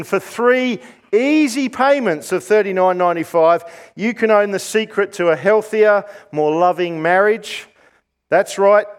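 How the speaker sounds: lightly voiced TV pitchman; home shopping host. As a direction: sell it like a shopping channel. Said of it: "Shopping channels on T V".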